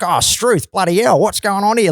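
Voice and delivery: put-on over-the-top Australian accent parody; hammed-up Aussie. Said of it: "Like, so Australian".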